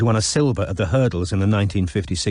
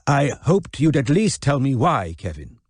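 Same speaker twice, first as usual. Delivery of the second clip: Della's grandeur; 5 semitones higher than usual. Acted. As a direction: play a grand lady, faintly let down. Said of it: "a touch of Della's mellifluous grandeur".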